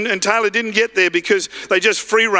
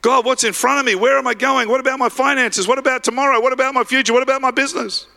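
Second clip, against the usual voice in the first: acted worry, pitched higher; anxious questioning; 4 semitones higher than usual. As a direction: fire off fretful questions one after another.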